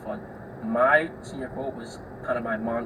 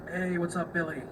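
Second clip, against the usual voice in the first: higher-pitched friendly hello; friendly hallway greeting; 6 semitones higher than usual. Acted. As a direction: greet a kid in passing, voice lifted.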